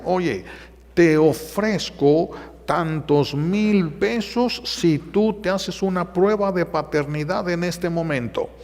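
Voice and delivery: a man luring a couple with cash; tempting offer. Retold or imitated. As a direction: dangle the money slowly. Man offers money for paternity test.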